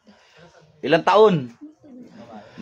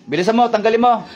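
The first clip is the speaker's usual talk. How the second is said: urgent command; 6 semitones higher than usual. Real, not acted. Healer ordering spirit out.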